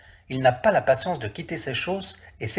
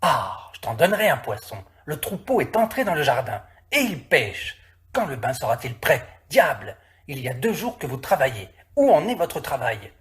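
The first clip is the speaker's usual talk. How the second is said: a landowner scolding his men; scolding master. Acted. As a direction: tell off the idle workers.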